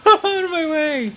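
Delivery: full-throated yell at the rivals; real excited shout. Real, not acted. Racing gamer yells at rival trucks: high excited shout. Ramming other trucks in race.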